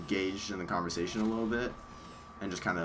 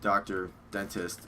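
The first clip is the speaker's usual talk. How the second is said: speaking through a numb mouth; words blurred by Novocaine; slower than usual. Real, not acted. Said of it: "'cause my mouth is numb".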